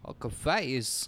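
slow, measured deadpan; drawn-out Walken lyric delivery; light Walken imitation; Walken-style song delivery. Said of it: "Christopher Walken's singing".

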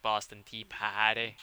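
put-on slow, drawn-out Boston accent; mock Boston accent. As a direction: say it like a Boston commercial local. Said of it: "saw that commercial where".

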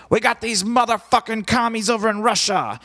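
high, loud hammed-up stage shout; mock rocker rant. Frontman ranting at the club crowd, hammed-up shout. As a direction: bellow it like a drunk frontman. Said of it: "he's like".

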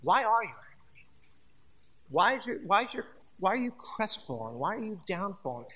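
soft, caring questions; gentle questioning God. Pretend. Preacher voicing God gently asking Cain why he is angry. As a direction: ask gently, with concern. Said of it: "He comes and he goes".

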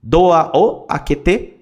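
slow, word by word; slow drill. Shown as a demonstration. Teacher showing the phrase to students, slow and deliberate. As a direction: stretch it out so learners catch it. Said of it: "teacher repeats phrase slowly".

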